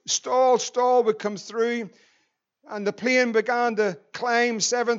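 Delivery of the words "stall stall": computerized voice. Retold or imitated. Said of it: "this computerized voice".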